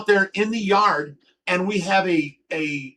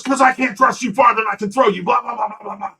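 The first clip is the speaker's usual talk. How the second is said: louder and higher, mock angry rant; retold yelling; 4 semitones higher, 4 dB louder, faster than usual. Retelling how the boss yelled at him, mock angry rant. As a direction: mimic the boss yelling and trail off into blah blah. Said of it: "he starts yelling at me".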